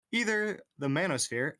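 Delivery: reading manosphere deadpan; straight face. Shown as a demonstration. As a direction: keep the word manosphere even and serious. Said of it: "say manosphere with a straight face".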